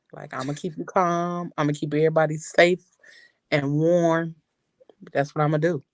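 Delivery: imitating a mellow, calming voice, slightly low. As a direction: play the calm one who keeps everyone safe. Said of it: "The mellow".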